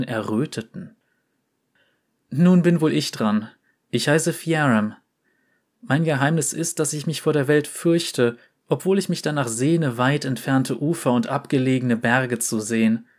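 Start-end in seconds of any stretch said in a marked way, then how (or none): 2.3-13.1 ein Hauch höhere, scheue Jungenstimme; leicht gespielter Porzellanjunge. Acted. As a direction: zaghaft ein Geheimnis gestehen. Fiaram spricht lange. (Fiaram gesteht Oriana seine Angst vor der Welt, leicht höher und scheu)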